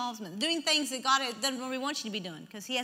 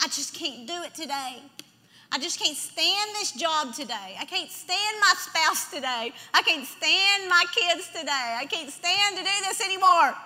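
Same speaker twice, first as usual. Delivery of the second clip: building complaint, from subdued to raised; mock exasperation; 3 semitones higher than usual. Preacher voicing what people think on bad days, mock-exasperated. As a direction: act fed up, leaning on each grievance. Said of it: "times when you think".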